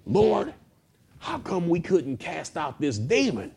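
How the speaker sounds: high-pitched, bewildered mock question; put-on high voice of perplexed disciples; puzzled apostles. Apostles puzzled, asking Jesus privately.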